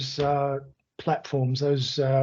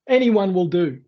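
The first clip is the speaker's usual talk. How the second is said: croaky voice; 4 semitones higher, 4 dB louder than usual. Real, not acted. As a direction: talk through a croaky throat. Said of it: "I start to sound like a croaky old, old frog".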